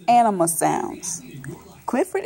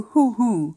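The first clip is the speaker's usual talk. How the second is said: owl hoot; 2 semitones lower than usual. Acted. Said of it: "the owl says".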